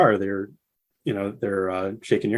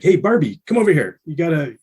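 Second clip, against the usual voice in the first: mock Dean calling the tour manager over; 5 semitones higher than usual. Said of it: "he's like".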